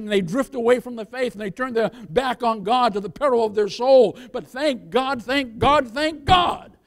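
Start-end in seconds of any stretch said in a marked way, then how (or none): 4.5-6.8 building praise. Acted. Preacher's building triple repetition.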